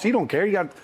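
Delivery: normal talking voice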